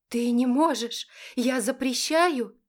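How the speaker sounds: mother forbidding the marriage; furious forbidding. A narrator's reading. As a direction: forbid it outright.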